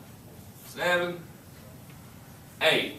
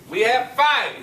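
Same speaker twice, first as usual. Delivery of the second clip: excited praise; 5 semitones higher than usual. Real, not acted. Praises right answer to class.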